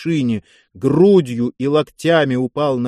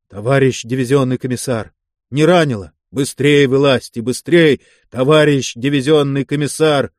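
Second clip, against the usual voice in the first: urgent call; 4 dB louder than usual. Acted. Urging commissar out of wreck.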